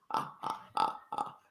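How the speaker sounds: breathy whispered maniacal cackle; a weak voiceless evil laugh; evil chuckle. Shown as a demonstration. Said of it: "I have a cold, so I can't".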